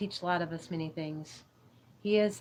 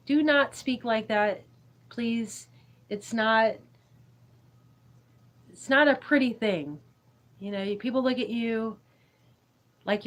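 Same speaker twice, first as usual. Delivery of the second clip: stern scolding; 3 semitones higher, 5 dB louder than usual. Real, not acted. Streamer scolding kids in chat for cussing, stern.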